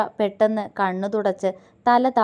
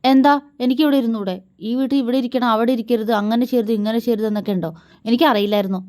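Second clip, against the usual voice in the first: offended wife lashing out; furious; 2 semitones higher, 4 dB louder, faster than usual. Acted. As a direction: hurl sarcasm back at him. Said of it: "കലിയോടെ".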